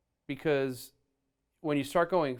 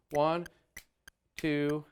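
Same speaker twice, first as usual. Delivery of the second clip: count-in; slower than usual. Shown as a demonstration. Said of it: "let me put the click on".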